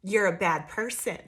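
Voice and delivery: loud, pointed mock accusation; mocking accuser. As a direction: jab each line at them like a know-it-all. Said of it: "somebody tried to bring you a message and be like".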